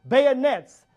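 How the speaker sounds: slow, loud battle command; slow drawn-out officer's order to fix bayonets. Retold or imitated. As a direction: call the charge to the troops. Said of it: "He says".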